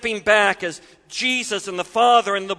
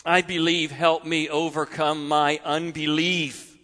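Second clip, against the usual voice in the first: lower, soft and sincere; quiet sincere prayer; 4 semitones lower than usual. Acted. Preacher echoing the father's prayer for every hurting parent, softly. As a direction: say it as a humble prayer. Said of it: "hope of every hurting parent".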